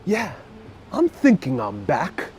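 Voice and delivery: lightly impersonated action hero; a hint of John Wick; Keanu Reeves. Streamer playing John Wick announcing his return, lightly impersonated. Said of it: "I could do Keanu Reeves and John Wick".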